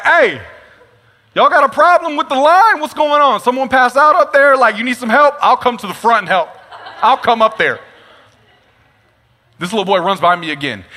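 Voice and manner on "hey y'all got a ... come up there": high and louder, calling up the line. Retold or imitated. Calling to the people up the line, loud mock-helpful shout. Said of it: "looking at my line like".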